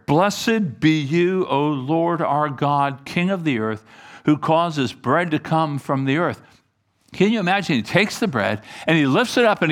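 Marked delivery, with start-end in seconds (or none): 0.1-6.4 slow, solemn blessing; measured, declaimed table prayer; praying. Acted. Jesus giving thanks for the bread, in slow formal prayer. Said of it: "So he prayed this prayer".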